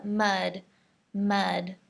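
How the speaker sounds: mud with a short, open u; careful model mud; correct mud. Shown as a demonstration. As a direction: say mud with an uh vowel. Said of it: "just like that".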